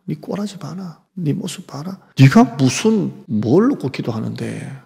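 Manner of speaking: taunting the weak believers, mocking. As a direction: sneer it like an enemy mocking. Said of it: "이렇게".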